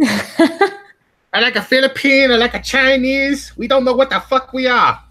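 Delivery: high, slow, hammed-up Asian accent; exaggerated comedic Asian accent; mock Asian accent, drawn out and high; stereotypical Asian accent. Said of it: "That's a Vietnamese accent".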